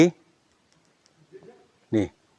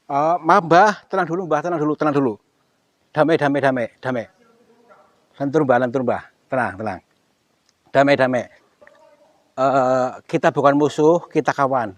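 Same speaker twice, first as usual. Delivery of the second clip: loud, higher, hurried pleas to calm down; urgent pleading; 4 semitones higher, 9 dB louder than usual. Real, not acted. Ghost hunter pleading with an angry spirit, loud and urgent. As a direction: beg him to hold off, fast and loud.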